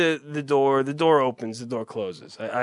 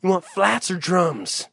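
mimicking the wing guy; 4 dB quieter, slower than usual. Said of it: "the guy who's asking me if I want flats".

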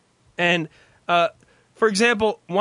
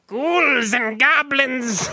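drawn-out, higher spooky announcer; Haunted Mansion voiceover; 7 semitones higher, much slower than usual. Acted. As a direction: ham up a haunted house voiceover, very slow. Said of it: "doing the voiceover for the Haunted Mansion".

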